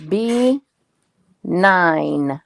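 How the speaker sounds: slow, drawn-out number calling; bingo caller. Pretend.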